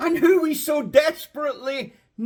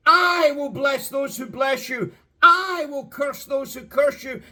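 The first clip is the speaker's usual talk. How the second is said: each I leaned on through the promises; stress on I. Shown as a demonstration. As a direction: read it with weight on I. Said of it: "an emphasis on the I".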